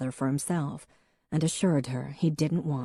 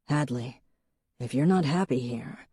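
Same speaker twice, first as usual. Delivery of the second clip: gentle. Acted. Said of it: "he began as gently as he could".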